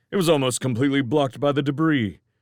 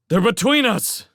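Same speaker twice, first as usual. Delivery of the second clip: shouting; 11 semitones higher, 5 dB louder than usual. Acted. Shouting warning across cavern.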